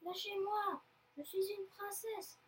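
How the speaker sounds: high-pitched demand, not shouted; lifted, indignant girl's voice; indignant protest. Acted. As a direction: protest as an outraged little captive. Captured girl protests.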